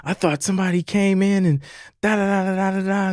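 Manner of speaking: high, fast imitation of the worried wife; mock panicked wife. Husband mimicking his nervous wife, high and fast. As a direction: rattle it off like a scared wife. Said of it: "She's just like".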